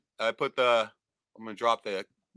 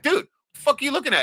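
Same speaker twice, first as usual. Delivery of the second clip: insistent retold question; 12 semitones higher, 3 dB louder, faster than usual. Asking buddy again, more insistently.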